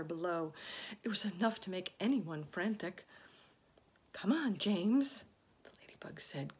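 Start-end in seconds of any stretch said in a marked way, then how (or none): 4.1-5.2 coaxing. A narrator's reading. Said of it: "coaxing him".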